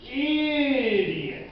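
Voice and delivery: drawn-out taunting insult; gleeful taunt; mocking jeer. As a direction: jeer slowly, stretching the words. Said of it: "it started cackling and laughing".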